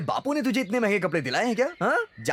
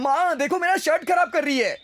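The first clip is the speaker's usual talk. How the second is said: higher-pitched whine of complaint to mother; calling out in complaint; 6 semitones higher than usual. Acted. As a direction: call out to mum, tattling. Calls mother during scuffle over shirt. (शिकायत भरी ऊँची पुकार)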